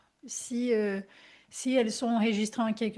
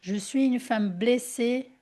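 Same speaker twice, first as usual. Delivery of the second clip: slow affirmation. Shown as a demonstration.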